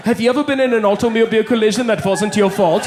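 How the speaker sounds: announcer read of an insurance ad. Retold or imitated. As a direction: pitch it like a TV commercial. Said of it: "it went to a commercial break".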